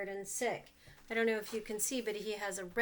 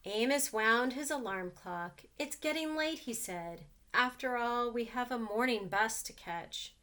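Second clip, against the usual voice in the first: put-on reading to children. A narrator's reading. Reads picture book to children.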